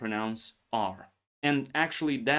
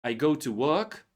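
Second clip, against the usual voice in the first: British work. Shown as a demonstration. Teacher shows British version to learners. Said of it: "you sound more like British".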